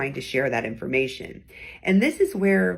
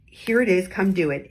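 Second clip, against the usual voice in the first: firm tone; 3 dB louder than usual. Shown as a demonstration. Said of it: "while I'm using a firm tone".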